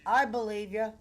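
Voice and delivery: quoting a mobster. Acted. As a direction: play the gangster boss talking down. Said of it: "Andre says".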